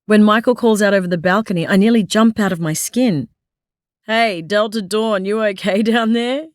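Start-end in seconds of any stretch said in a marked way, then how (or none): 4.1-6.5 amused, teasing call; chuckling. Acted. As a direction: say it through a chuckle. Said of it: "he asks with a chuckle".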